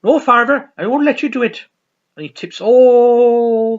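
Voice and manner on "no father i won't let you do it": loud, high, firm refusal; AA leader refusing. Retold or imitated. Group leader stopping Father Jack from drinking, loud. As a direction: stand your ground against the priest. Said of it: "group is like".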